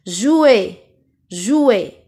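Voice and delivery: "Jouer" ending in closed é. Shown as a demonstration. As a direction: model the final é of "jouer". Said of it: "La deuxième syllabe qui contient E". (« jouer » avec é fermé final)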